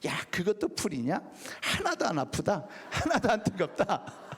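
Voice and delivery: mocking, high, laughing evil spirit voice.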